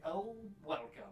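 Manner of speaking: high, slow vampire greeting; Strahd voice. Retold or imitated. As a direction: draw out a mock vampire welcome. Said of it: "did that voice for Strahd".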